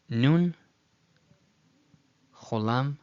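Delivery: spelling it out, name by name; name each sign slowly and separately; letter by letter. Shown as a demonstration. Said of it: "if I read it directly".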